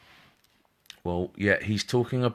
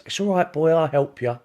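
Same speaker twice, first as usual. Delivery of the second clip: high, louder kindly grandma voice; grandma's voice; 9 semitones higher, 7 dB louder than usual. Retold or imitated. Medium imitates the spirit grandma reassuring him, high and louder. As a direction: pitch it up like a sweet old lady comforting a boy. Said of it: "That's the way she is".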